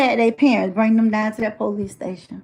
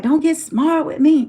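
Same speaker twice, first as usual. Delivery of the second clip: higher-pitched warning from a mother; mildly cross mock telling-off; retold maternal scolding; 6 semitones higher than usual. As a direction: mimic a mother warning off backtalk. Mother scolds child in retold quarrel.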